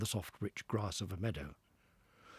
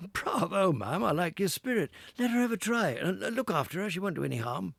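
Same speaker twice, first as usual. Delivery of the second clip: hearty gentleman; 9 semitones higher, 6 dB louder than usual. Acted. Gentleman cheering Toad on.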